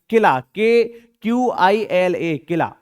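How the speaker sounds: letter by letter spelling. Shown as a demonstration. Teacher spelling किला for the class, slowly. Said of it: "के आई एल ए नहीं होता।".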